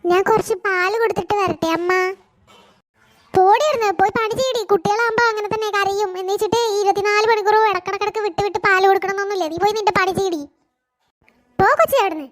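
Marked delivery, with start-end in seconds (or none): 3.3-12.3 shouting mother-in-law. Acted. Mother-in-law yelling at the daughter-in-law to stop nursing and work, furious. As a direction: drive her away with a furious shout.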